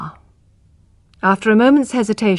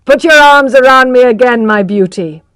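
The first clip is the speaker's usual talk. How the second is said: laughing; 3 semitones higher, 7 dB louder than usual. Acted. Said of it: "he said, laughing".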